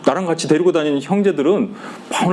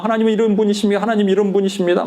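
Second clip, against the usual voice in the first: eager praise; 5 semitones higher, faster than usual. Retold or imitated. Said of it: "막 튀어나와".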